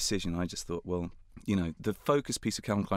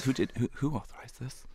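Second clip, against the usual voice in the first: higher, appalled boss voice; indignant boss; 5 semitones higher than usual. Retold or imitated. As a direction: demand to know who did it. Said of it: "And he goes".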